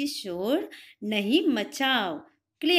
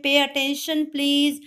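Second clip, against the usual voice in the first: firm call; 3 semitones higher, 6 dB louder, much slower than usual. Shown as a demonstration. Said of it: "जब वो आपको बोलते हैं".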